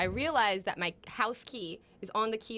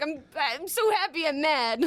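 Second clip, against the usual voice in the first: mock angry affection; 6 semitones higher than usual. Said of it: "he says it, like, real angry".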